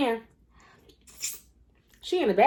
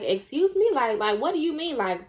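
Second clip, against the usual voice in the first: shocked; faster than usual. Retold or imitated. Jen shocked at Lola.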